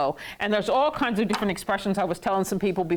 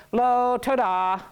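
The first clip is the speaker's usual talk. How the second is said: polite refusal; slower than usual. Acted. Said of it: "So then you can say".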